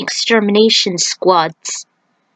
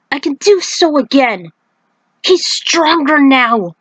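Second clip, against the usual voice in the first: defiant weakened god; 4 semitones higher than usual. Acted. Raiden vows to stop Kahn.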